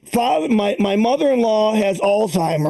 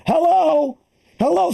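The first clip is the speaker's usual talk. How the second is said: higher calling hello; calling old woman; 6 semitones higher, slower than usual. Retold or imitated. Comic imitating his mother-in-law calling out, higher. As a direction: call out like a lost old lady.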